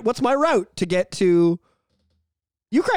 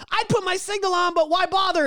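mock Asian lady; 10 semitones higher than usual. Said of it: "an Asian lady going".

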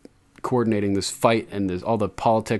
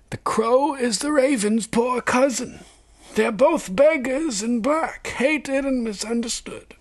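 put-on very high, slow old man's voice; old maester; slower than usual. A narrator's reading. Old maester teaching Jon about ravens and crows, aged voice. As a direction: play an aged scholar, drawn out and high. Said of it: "Maester Aemon asked".

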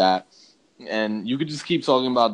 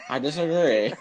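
laughing echo of the meme; 6 semitones higher than usual. Retold or imitated. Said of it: "the meme from Family Guy".

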